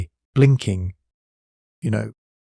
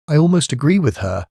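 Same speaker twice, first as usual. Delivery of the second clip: snapped; 5 semitones higher than usual. A narrator's reading. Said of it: "Wendy snapped".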